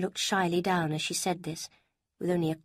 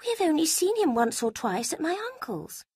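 a lightly higher voice for Lucy; Lucy, higher voiced; 11 semitones higher, 4 dB louder than usual. A narrator's reading. Lucy telling Eleanor about an uncle, lightly higher voice. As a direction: lift the pitch for the young woman Lucy.

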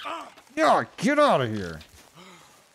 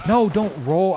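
higher, louder alarmed cry; frustrated shout; 6 semitones higher, 7 dB louder than usual. Real, not acted. Player yells as character rolls, frustrated shout. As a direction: yell at the game going wrong. Game action going wrong.

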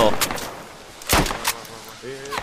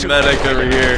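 man down shout. Real, not acted. Wounded player calls for medic.

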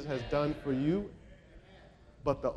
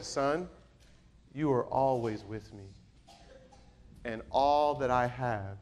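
tender father. Acted. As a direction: bring it right down, solemn and tender. Father's words repeated softly, tenderly.

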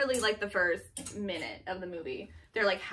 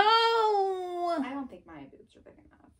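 high, slow fake crying; hammed-up crying complaint; mock whine; 9 semitones higher, 4 dB louder, slower than usual. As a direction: whimper it like a sulky child. Mock whining about fit.

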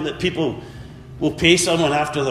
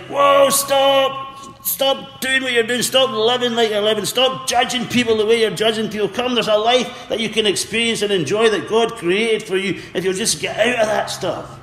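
urgent pleading call; 5 semitones higher than usual. Retold or imitated. Preacher voicing Jesus urging Pharisees to turn back, urgent. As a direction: cry out stop, pleading to save them. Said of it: "it was like".

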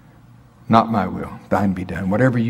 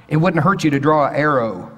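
ordinary talk

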